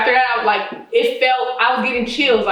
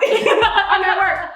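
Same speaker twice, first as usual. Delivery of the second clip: mock busy mom; 8 semitones higher, much slower than usual. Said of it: "She was like".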